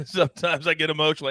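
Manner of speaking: laughing through a mock-emotional confession. Real, not acted. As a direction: chuckle it out, half joking.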